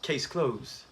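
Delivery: hushed mock verdict; whispered catchphrase. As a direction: whisper it like a secret punchline. Quoting the show's catchphrase.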